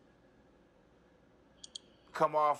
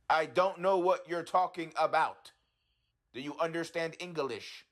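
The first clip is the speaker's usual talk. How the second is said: sarcastic and sassy; 3 semitones higher than usual. Pretend. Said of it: "being sarcastic and sassy".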